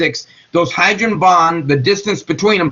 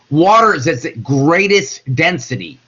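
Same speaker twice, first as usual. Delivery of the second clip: "greatest" punched out; emphatic weight on "greatest"; stress on greatest. Shown as a demonstration. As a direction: lean hard on the word "greatest". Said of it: "I keep emphasizing the word greatest".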